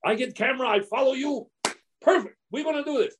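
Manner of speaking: light Argentine-accented imitation, rising with excitement. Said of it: "He goes".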